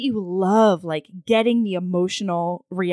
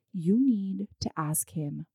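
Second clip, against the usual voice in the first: urgent quiet push; 6 dB quieter, slower than usual. Retold or imitated. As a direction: hiss it like a secret nudge. Cousins urging quietly.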